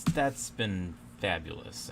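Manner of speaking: slow, drawn-out sarcastic fabulous. Acted. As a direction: let the fabulous drip with irony. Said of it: "I'm obviously being a bit sarcastic there".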